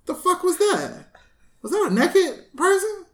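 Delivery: can't believe what just rode past; stunned disbelief. Retold or imitated. Retold shock at naked cyclist.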